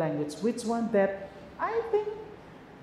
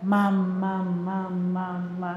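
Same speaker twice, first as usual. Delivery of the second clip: put-on babbling like a baby; 2 semitones lower, slower than usual. Shown as a demonstration.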